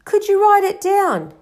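high-pitched, helpful question; lifted, questioning voice; tentative suggestion. A narrator's reading. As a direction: offer it as a youngster's suggestion. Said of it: "Harry suggested".

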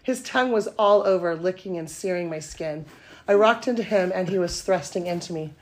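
steady read-aloud narration; story reading. Acted. Reading her steamy story to podcast cohosts, even narration. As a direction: read the romance scene out to the room.

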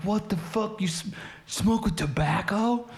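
high, incredulous mock outcry; imitated disbelief. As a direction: question it in high-pitched, appalled astonishment, as mimicry. Retold shock at tobacco in weed.

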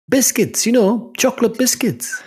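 explaining biscuits to a baffled visitor, exaggerated; over-explaining. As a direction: spell it out for someone who doesn't understand. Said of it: "You can't understand a fucking word".

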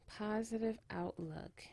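slow, very soft hushed repeat; whispering. Real, not acted. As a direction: breathe the words gently. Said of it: "have to whisper a little bit".

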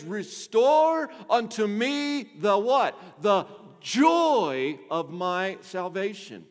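drawn-out, loud scripture reading; slow solemn quote. Retold or imitated. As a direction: stretch each word of the psalm. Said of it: "He says".

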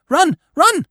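high, loud twittering cry; chirping titmice. A narrator's reading. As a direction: chirp it out in panic like a tiny bird.

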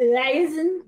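backwards speech. Pretend. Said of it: "Say all the band's boys' na-, first names backwards".

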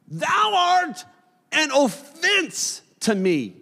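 high shouted King James rebuke; commanding shout. Acted. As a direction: cry out the rebuke, then let it land slowly. Jesus rebukes Peter, voiced.

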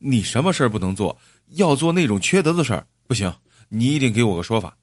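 quick, indignant scolding; mildly angry, insistent demand; unrelenting. Acted. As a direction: refuse to let it go, pressing fast. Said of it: "张义超还是不依不饶".

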